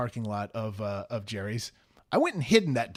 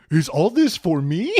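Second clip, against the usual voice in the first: mock flattered; 5 dB louder than usual. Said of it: "And I go".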